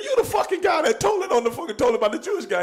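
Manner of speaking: high, laughing mock yell at the kid; laughing accusation. Teasing Matt Damon at the bar, laughing mock yell. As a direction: call him out while cracking up.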